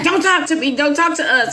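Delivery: lightly voiced irritated daughter shutting them down; mock angry snap. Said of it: "she got real mad".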